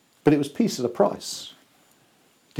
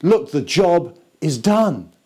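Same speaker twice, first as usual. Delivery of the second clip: Jesus speaking; 2 semitones higher, slower than usual. Pretend. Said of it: "it's as though he's saying".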